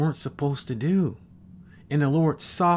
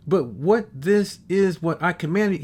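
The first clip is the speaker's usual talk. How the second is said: excited scripture reading, tripping over the words; preacher carried away by the verse; getting excited; 4 semitones higher than usual. Real, not acted. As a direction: read it eagerly, getting ahead of yourself. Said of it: "I'm getting excited".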